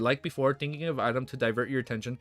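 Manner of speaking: steady read-aloud novel narration; audiobook-style reading; story narration. Acted. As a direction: read the chapter out to the chat. Streamer reads novel aloud.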